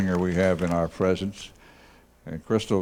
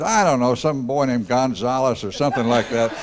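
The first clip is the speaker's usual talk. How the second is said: raised, louder mock Loretta; quoting Loretta; 4 semitones higher, 5 dB louder than usual. Host imitates Loretta answering him, higher and louder. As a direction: toss it off like the big sister. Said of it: "She said".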